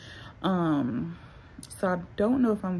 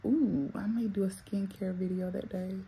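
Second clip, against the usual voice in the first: whisper; 7 dB quieter than usual. Real, not acted. Sudden idea said aside.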